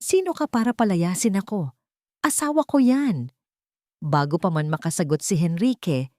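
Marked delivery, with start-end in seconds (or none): 0.0-3.3 angry defiance. Acted. Drunk husband defies the CEO, building to an angry shout. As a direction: bark back at the man throwing you out. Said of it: "napalitan ng galit".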